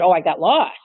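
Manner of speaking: lightly voiced employee's lame excuse in a changed voice; mock excuse. Supervisor mimics employee's lame excuse, in a put-on voice. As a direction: act out her flimsy excuse with a sly shrug. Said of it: "and then she later said".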